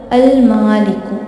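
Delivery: अल मालिकु said slowly with a clearly sounded लाम; slow recitation. Shown as a demonstration. Teacher recites an example for students, slow and careful. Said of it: "इसीलिए हम लाम पढ़ रहे हैं".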